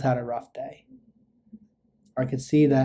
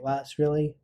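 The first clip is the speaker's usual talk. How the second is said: validating. Shown as a demonstration. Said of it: "Act interested in what the person's saying".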